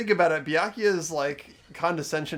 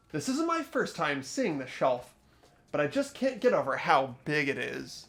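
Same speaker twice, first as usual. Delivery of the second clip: measured reading with lively rises on key words; story narration. Acted. Player reading the game's inner monologue aloud, expressive narration. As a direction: read out the character's thoughts deliberately.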